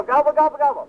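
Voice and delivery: turkey gobble call; gobbling turkey voice. Shown as a demonstration. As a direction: demo the gobble for the crowd. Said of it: "time to start the turkey chant".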